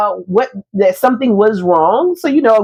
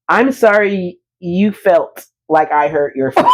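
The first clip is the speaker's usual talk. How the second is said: mock non-apology; 3 semitones lower than usual. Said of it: "And he's a Sagittarius. And so his apology is".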